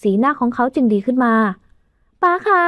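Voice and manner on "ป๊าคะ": drawn-out, relieved call to her dad; tearful relief calling father. A narrator's reading. Daughter reunited with her father, drawn-out relieved call. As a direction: cry out for papa, overwhelmed.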